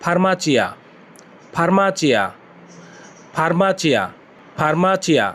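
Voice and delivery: ফার্মাচিয়া with a clear Italian ch, stress on মা; teacher modelling ফার্মাচিয়া; Italian word farmacia. Shown as a demonstration. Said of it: "pharmacy এর Italian হচ্ছে".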